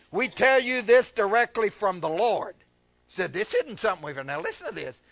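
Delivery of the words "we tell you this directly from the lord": firm, louder reading; preached scripture reading. Real, not acted. Preacher reading Paul's words to the church, emphatic. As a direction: announce it with pulpit authority. Reads scripture aloud to congregation.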